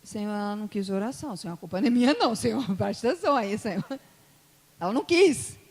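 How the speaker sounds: quick, wavering mock complaint; protesting excuse. Preacher arguing back to the Lord, exasperated protest. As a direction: plead your innocence, rising at the end.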